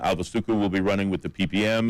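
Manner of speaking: "Suku" stressed on its first syllable; emphasis on wrong syllable. Real, not acted. Host announces who is running, stressing "Suku" on the first syllable. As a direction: say "Suku" as SOO-koo. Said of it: "putting the emphasis on the wrong syllables".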